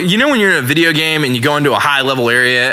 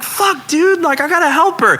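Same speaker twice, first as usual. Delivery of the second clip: retold dismay; 12 semitones higher than usual. Retells dismay at fallen lady.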